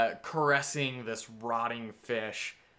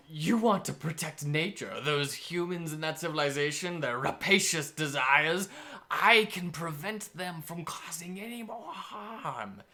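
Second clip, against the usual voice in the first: tempting hag; 3 semitones higher than usual. Acted. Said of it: "the hag tries to tempt the druid".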